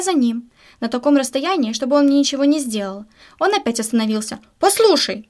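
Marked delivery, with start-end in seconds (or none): 4.6-5.3 higher-pitched narrated shout; a storyteller's restrained yell; calling out. A narrator's reading. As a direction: call out sharply to get attention, not at full volume. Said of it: "кричит".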